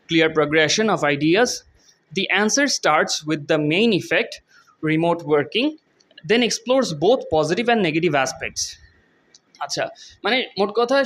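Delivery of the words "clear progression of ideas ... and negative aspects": slow, careful read of the English text; slow reading aloud. Shown as a demonstration. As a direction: read each word out slowly for students. Reads model answer aloud. (ধীরে ধীরে পড়ে শোনানো)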